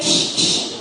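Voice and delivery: unvoiced shushing, sneaking. Sneaking to the supply closet, shushing. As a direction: hush it like you're sneaking off.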